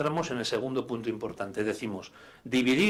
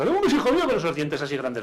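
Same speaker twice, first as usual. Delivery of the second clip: doting aunt; 2 semitones higher, 4 dB louder than usual. Retold or imitated. An aunt from Burgos greets the child with a big kiss. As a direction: gush over the kid like a pinching auntie. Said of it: "la tía de Burgos".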